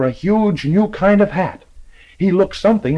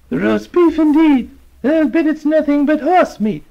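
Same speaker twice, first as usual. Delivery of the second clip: put-on scoffing old lady; 13 semitones higher, 3 dB louder than usual. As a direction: sniff at it doubtfully. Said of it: "said the old lady".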